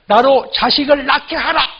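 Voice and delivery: threatening demand. Acted. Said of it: "남편을 막 협박하는 거예요".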